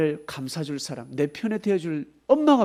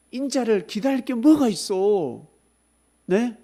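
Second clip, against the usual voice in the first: loud, high, slow scoffing question; mock scoffing; 6 semitones higher, 6 dB louder, slower than usual. Doubter to the preacher, scoffing question. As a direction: scoff at the idea of waiting.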